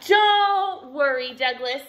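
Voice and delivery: loud, drawn-out high opening; chirping bird. A narrator's reading. Swoopy bird swooping in on Douglas, loud chirpy voice. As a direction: chirp it out, falling on the name. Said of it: "chirped a swoopy bird".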